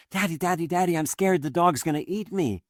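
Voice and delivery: put-on high-pitched frightened little child; acted small child in a panic; scared two-year-old. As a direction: plead like a toddler running to a parent. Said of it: "say the two-year-old crawls away and the dog barks".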